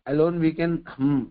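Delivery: very slow, word by word; slow maxim. Acted. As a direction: spell out the lesson slowly for the listeners.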